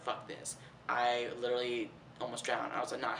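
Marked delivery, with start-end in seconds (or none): 0.0-0.6 breathy whispered fuck this; whispered disgust after nearly drowning; whispered curse. Retold or imitated. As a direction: hiss it under your breath.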